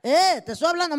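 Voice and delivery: husband fed up that his wife doesn't answer; impatient husband call. Retold or imitated. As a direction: bark the Eh until she answers. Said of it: "hasta que oyites el eh".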